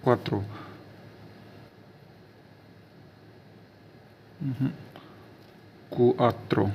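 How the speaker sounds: क्वात्रो as kwah-tro; teacher repeating क्वात्रो; Italian quattro. Shown as a demonstration. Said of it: "चार को बोला जाता है क्वात्रो".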